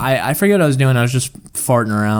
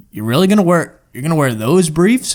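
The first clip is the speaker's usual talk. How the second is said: incredulous friend; 5 semitones higher than usual. Retold or imitated. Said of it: "He's like".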